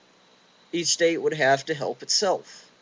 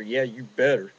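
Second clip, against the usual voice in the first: cop sneer; 2 semitones lower than usual. Retold or imitated. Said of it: "And he's sitting there".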